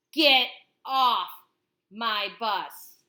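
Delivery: loud furious command; angry driver. Acted. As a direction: throw her off your bus. Driver throwing her off.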